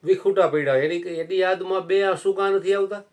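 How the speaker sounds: loud, high rebuke from the saint; stern scolding. Acted. Saint rebuking the old devotee, high and loud. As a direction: thunder at him for clinging to his wife.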